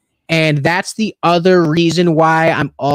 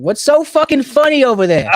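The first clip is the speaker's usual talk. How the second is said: mock indignant call-out; 10 semitones higher than usual. Real, not acted. Calling out laughing cohost.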